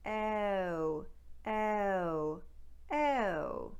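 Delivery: ow starting on eh; ow glides eh to uh; Newfoundland ow. Shown as a demonstration. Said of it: "What they do in Newfoundland".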